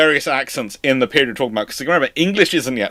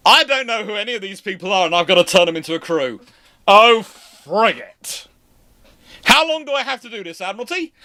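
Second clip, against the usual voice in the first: exasperated captain; 7 semitones higher than usual. Acted. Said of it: "turning up on a ship and going".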